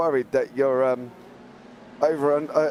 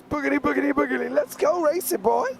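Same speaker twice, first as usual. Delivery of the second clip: put-on poor American accent, much higher; 14 semitones higher than usual. Commentator admitting a poor American accent, high and hammed-up. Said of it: "In his best American accent".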